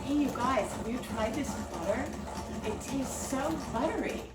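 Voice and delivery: a lightly bright, chirpy butter-ad pitch; cheesy commercial read. Shown as a demonstration. Practicing her butter audition lines in the mirror, mildly chirpy ad read. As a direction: sell the butter to the mirror with a mild grin. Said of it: "I practiced them in the bathroom mirror like this".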